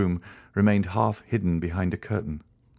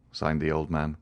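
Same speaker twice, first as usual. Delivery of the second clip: plain reading voice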